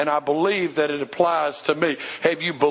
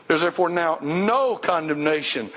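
no stressed again; no carries the weight. Shown as a demonstration. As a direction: press the word no. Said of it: "put emphasis on the word no".

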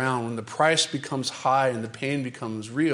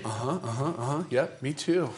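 offhand agreement; 4 dB quieter than usual. Acted. Disciples casually agreeing.

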